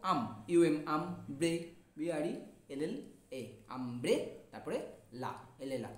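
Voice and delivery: আম set apart as the first syllable; আম as a separate spelling chunk. Shown as a demonstration. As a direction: sound out আম on its own, then pause. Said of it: "ভেঙে, ভেঙে, ভেঙে উচ্চারণ করি".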